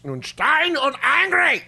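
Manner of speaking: slow, hammed-up angry German accent; mock German accent. Shown as a demonstration. Comic demonstrating a German accent on request, mock angry German. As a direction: do an exaggerated German accent, drawn out. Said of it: "What, what would a German accent? Dan, go".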